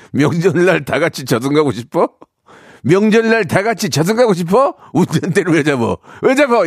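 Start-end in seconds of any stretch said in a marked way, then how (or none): 2.8-4.7 high-pitched, heated mock outburst; indignant retort. Repeats quoted retort as angry outburst. 4.9-6.7 high-pitched, heated mock outburst; indignant retort. Acted quarrel over the driving.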